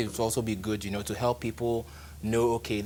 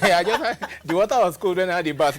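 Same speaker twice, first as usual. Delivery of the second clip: louder, higher mock excitement; excited mock; 8 semitones higher, 8 dB louder than usual. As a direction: ham up a gushing poster. Mocking Facebook posters.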